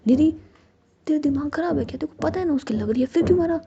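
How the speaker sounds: loud, rising angry outburst that peaks at the end; angry scolding. Acted. Ruhi scolds Nidhi angrily for hitting injured Jiya, loud and furious. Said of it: "तो रूही गुस्से से कहती है".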